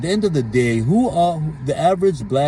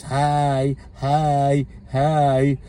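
whiny voice; 3 semitones higher, much slower than usual. Retold or imitated. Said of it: "whiny voice of yours".

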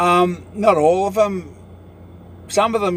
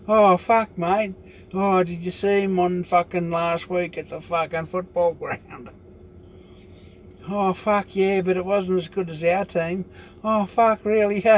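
higher, mocking footy gossip, trailing off softer; a raised, hammed-up bloke voice chatting footy; mock Aussie blokes; 3 semitones higher, 3 dB quieter than usual. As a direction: send up the lads gossiping after the meeting. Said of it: "they have their shazza and dazza".

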